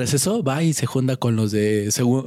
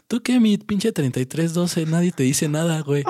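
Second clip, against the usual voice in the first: mocking jab, slower and a bit higher; retold shout; 3 semitones higher than usual. Schoolboy taunting a classmate, mock yell. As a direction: call him out across the room. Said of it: "y yo le grito".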